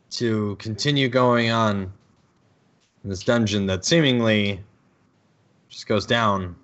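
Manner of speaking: flat, bored monotone. Real, not acted. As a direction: drone it out, unimpressed. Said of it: "my monotone voice".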